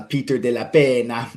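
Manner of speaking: put-on Peter de la Pena with an Italian accent, "la" open and "Pena" as "peh-na"; a light Italian lilt on "Peter de la Pena"; Italian-style name. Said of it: "I say it like an Italian".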